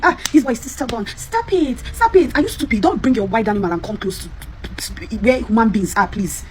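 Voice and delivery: scolding parent. Retold or imitated. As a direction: snap at the kid like a fed-up mother. Mother scolding stubborn child.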